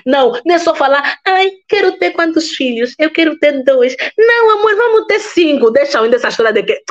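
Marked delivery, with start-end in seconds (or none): 1.2-4.0 high, sing-song partner's voice; whiny girlfriend voice. Pretend. Acting out a couple's chat. 4.2-5.7 playful partner reply. Pretend. Partner answers in acted chat.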